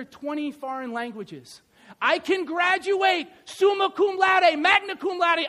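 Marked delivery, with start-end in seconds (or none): 2.0-5.5 loud, high, slow proclamation; preaching at full force; emphatic preaching. Acted. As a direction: build it up like a preacher. Preaching climax on achievements.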